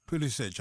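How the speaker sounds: Pulisic repeated with a final "ch"; ch ending. Shown as a demonstration. Host confirms the name after co-host, Pulisic ending in "ch". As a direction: say Pulisic as "POO-li-sitch". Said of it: "how do you pronounce it".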